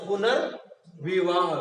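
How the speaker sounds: पुनर्विवाह said slowly, पुनर् then विवाह; slow, parted पुनर्विवाह for learners; demonstrated pronunciation. Shown as a demonstration. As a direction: stretch out पुनर्विवाह to show the र ending पुनर्. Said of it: "हो रहा है इसका उच्चारण".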